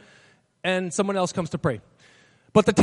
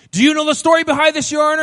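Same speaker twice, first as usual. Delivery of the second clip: eager plea; 5 semitones higher, 9 dB louder, faster than usual. Retold or imitated. Defendant pleading excitedly to judge.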